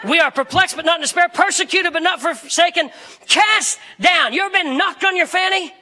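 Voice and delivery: emphatic, driving pulpit delivery; full-force preaching. Real, not acted. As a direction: rattle off the verse with conviction.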